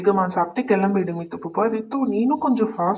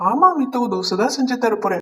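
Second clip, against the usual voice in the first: excited yes; 4 semitones higher than usual. Acted. Brother cheerfully promises dosa to little sister, eager yes. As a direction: answer her with a cheerful burst.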